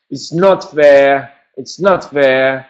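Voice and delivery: put-on It's not fair, slow and whiny like a sulking child; childlike whine. Shown as a demonstration. Teacher voices a sulking child for contraction practice, whiny. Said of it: "Ça aide de penser à un enfant".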